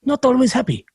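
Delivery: high-pitched put-on Arab accent; imitated Arab accent. Driver telling passenger about rich people, imitated Arab accent. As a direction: imitate an Arab cabbie, accent slipping towards Russian. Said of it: "starting to sound Russian".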